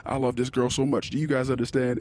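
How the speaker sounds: goofy dad scolding spiders for his daughter; grandiose mock threat. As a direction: put on a big show of chasing spiders. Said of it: "grandiose display of".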